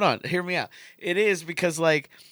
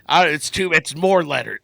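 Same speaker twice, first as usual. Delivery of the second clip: mock old curmudgeon; 3 semitones lower than usual. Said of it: "being an old curmudgeon and being like".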